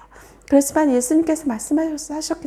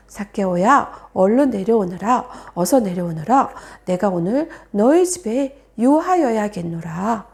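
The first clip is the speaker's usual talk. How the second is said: Jesus calling; 5 semitones lower than usual. Acted. Jesus calls Zacchaeus down.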